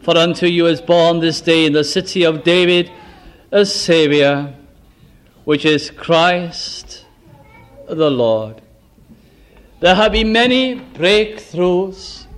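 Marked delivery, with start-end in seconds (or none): 0.0-8.6 solemn reading, slowing to a hush at the end; scripture reading. Acted. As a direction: read it like the Christmas gospel. Reads Christmas scripture over music.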